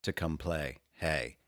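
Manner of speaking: dramatic reading. Pretend. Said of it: "brief dramatic reading".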